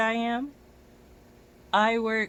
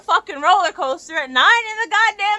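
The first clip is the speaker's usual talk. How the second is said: high, loud exasperated yell; angry outburst; 11 semitones higher, 10 dB louder than usual. Real, not acted. Complaining about an early trip across Brooklyn, loud exasperated yell. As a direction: blow up at the thought of it.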